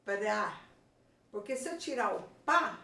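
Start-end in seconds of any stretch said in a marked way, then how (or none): 0.0-0.6 "pra" as one syllable, P and R both heard; both consonants sounded. Shown as a demonstration. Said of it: "Tanto eu falei o P como eu falei o R".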